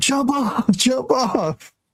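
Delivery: mock shrieking yell, very high-pitched and urgent. Retelling yelling at him as he headed toward the fence, retelling a yell. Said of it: "And I'm yelling".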